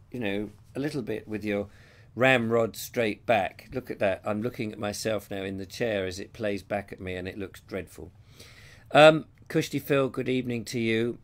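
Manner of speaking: hoarse, croaky from a cold; croaky voice, a bit run down. Real, not acted. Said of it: "Sorry about the croaky voice".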